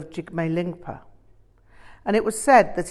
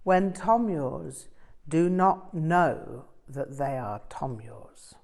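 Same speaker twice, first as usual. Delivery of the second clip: slow, weighty, falling to a hush at the end; with conviction; slower than usual. A narrator's reading. Rinpoche warns his students, slow and earnest. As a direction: press the point home firmly. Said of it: "Rinpoche stressed with surprising conviction".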